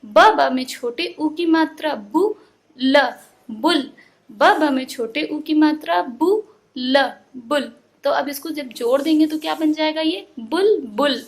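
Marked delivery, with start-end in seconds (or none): 0.1-7.7 slow teacher's spelling of "बुल" in pieces. Shown as a demonstration. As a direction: sound out "बु", "ल", then join them as "बुल". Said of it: "तोड़ तोड़ के पढ़ना".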